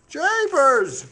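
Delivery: loud surprised jeepers; surprised exclamation. Acted. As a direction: exclaim in mock shock. Mock surprise at article.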